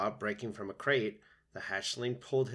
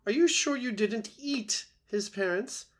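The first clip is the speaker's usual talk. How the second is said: high, loud, suspicious goose voice; squawking old goose; 12 semitones higher, 5 dB louder than usual. A narrator's reading. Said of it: "squawking to the robot".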